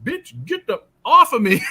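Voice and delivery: imitating yelling at the masseuse to get off; retold yell. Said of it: "And I'm yelling".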